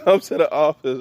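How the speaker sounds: mock principal voice breaking into a laugh; amused intercom summons; laughing through it. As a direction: giggle while summoning him to the office. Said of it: "Called him over the intercom".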